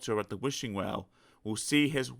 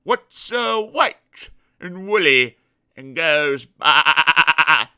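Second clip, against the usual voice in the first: holding back laughter; 4 semitones higher, 11 dB louder, much slower than usual. Acted. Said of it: "trying to keep a straight face".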